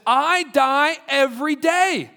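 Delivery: slow, weighty line; preacher quoting Paul, slowly; slow solemn quote. Retold or imitated. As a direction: let each word land. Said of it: "he says this".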